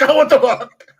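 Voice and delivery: high, loud mock dismay; retold disgusted outburst. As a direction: exclaim it in comic disbelief. Retold reaction to meat stick.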